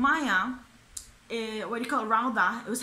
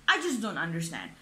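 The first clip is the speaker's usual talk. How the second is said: usual speaking voice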